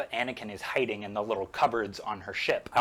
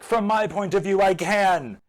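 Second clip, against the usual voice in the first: louder, higher defiant retort; 6 semitones higher, 7 dB louder than usual. Retold or imitated. Anakin defying Obi-Wan, loud mock defiance. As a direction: throw it back defiantly. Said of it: "And Anakin is like".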